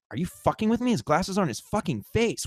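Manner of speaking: high-pitched stunned disbelief; incredulous disbelief. Retold or imitated. Telling cohost his inner shock, high disbelief.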